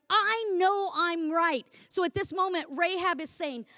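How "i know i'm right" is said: slow, sure and unshakable; bold certainty. Shown as a demonstration. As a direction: say it like you know you're right. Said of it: "We speak with such boldness".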